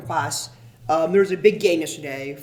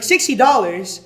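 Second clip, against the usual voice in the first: louder, higher, drawn-out echo of disbelief; mock incredulous; 4 semitones higher, 7 dB louder, slower than usual. Woman haggling over a scalped ticket, imitated incredulity. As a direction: balk at the price, imitating an outraged buyer. Buyer balking at the price, retold.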